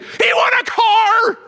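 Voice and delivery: high, loud, slow "He won a car!"; shout of joy. Retold or imitated. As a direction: shout the news to everyone. Family cheering.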